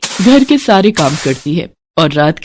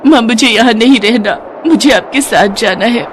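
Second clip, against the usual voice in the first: put-on raised childlike voice, complaining; a small girl pouring out her troubles; tearful little girl; 4 semitones higher than usual. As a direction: daughter telling her mother's spirit, childlike. Daughter tells mother's spirit.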